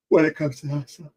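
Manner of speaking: words stretched by a yawn. Real, not acted. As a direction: say it mid-yawn. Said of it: "Excuse my yawning here".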